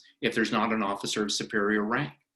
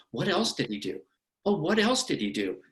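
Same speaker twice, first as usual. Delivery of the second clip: lightly acted prompting, pitched up on the repeat; feigned eager curiosity; 3 semitones higher than usual. Attorney sitting back as a witness rants, mock-curious. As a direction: egg them on with mock interest.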